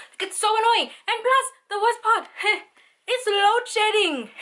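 high, loud laughing exasperation; exasperated laughing. Real, not acted.

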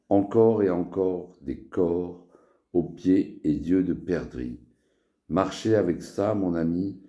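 measured verse, line by line; poem recitation. Acted. Poet reciting a poem to friends, poem recitation. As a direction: recite verse in short phrases, pausing between them. Récite son poème Sans sujet.

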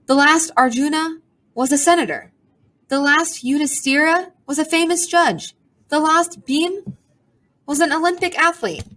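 high, snooty bird voice; a proud bird listing past glories; high pompous pigeon voice; haughty pigeon. A narrator's reading.

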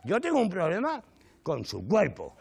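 hammed-up disgusted reply; indignant retort. Comic snapping back at the naked man, mock indignant.

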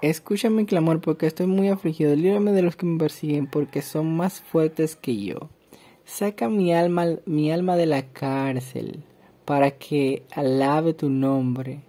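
steady psalm reading, slowing at the end; scripture reading. Acted. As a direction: read the verses then ease into calm. Rereads the psalm.

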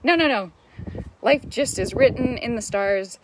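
high, loud, dismissive mock voice; skeptical viewer. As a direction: play a scoffing doubter brushing her off. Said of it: "Are you like".

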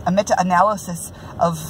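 a lightly put-on Scottish brogue, amateur attempt; Scottish accent, self-consciously hammed. Reviewing a book in a playful Scottish brogue. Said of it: "in my best Scottish brogue".

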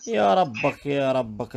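angry shout. Real, not acted. Angry outburst.

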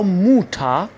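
slow موتا ending in "a", no r; final R as A. Shown as a demonstration. Teacher modelling German mother, موتا without the r. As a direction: say موتا with er turned into "a".

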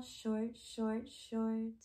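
soft, short words. Shown as a demonstration. Teacher showing what short means, softly. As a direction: drop softly on each word. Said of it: "tall and short".

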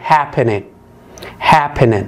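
happening with HAP stressed; model word. Shown as a demonstration. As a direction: say happening stressing the first syllable. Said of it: "من غير مضاعفة الحرف الأخير".

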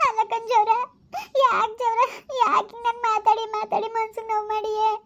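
hurt, crying complaint; tearful reproach. Acted. Woman to her lover who hurt her, tearful reproach. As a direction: plead with him through tears. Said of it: "ಅಳ್ಬೇಡ, ಆಯ್ತು".

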